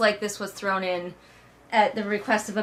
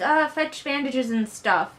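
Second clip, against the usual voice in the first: mock flustered servants; 4 semitones higher, slower than usual. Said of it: "They're all like".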